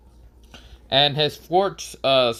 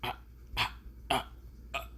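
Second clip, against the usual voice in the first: soft, voiceless "ah" gasps; short, quiet stammered gasps; stunned gasps; 3 semitones higher, 14 dB quieter, faster than usual. Acted. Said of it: "Konohamaru goes".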